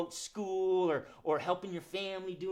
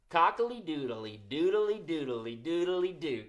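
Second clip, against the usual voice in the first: rooster call; slower than usual. Shown as a demonstration. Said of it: "He says".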